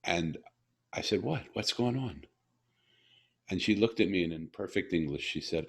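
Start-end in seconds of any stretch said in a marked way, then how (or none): 1.2-2.2 higher-pitched puzzled question; retold bewilderment. Puzzled father reacting to his daughter's sudden smile, mild bewilderment. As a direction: ask it as if caught off guard, lightly acted.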